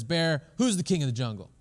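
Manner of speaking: lightly voiced boastful lion; a hint of swaggering lion; proud lion. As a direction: challenge the bear like a cocky king. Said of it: "and he says".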